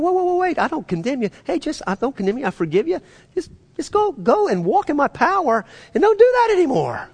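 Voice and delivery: high-pitched, urgent reassurance; urgent forgiveness. Acted. God to a sinner expecting condemnation, urgently forgiving. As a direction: cut in high and pleading, releasing them from guilt.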